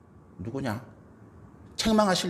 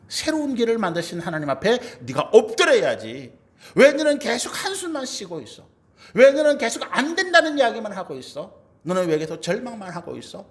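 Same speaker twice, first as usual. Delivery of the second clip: rousing reproach; 3 semitones higher than usual. Acted. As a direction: scold them out of despair, easing off between outbursts. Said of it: "책망하는 거예요". (일으켜 세우듯 힘주어 책망)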